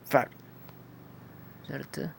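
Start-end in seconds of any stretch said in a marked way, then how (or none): 0.1-0.3 "Far" with a long A; lengthened A. Shown as a demonstration. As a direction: draw out the vowel in "Far". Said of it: "significan que ese sonido se alarga". ("Far" con la A alargada)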